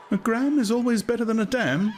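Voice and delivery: high, prim woman's voice, pleased with herself; a woman settles the argument with a proverb; dignified conclusion. A narrator's reading. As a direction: finish the slogan with prim dignity. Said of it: "she concluded with dignity".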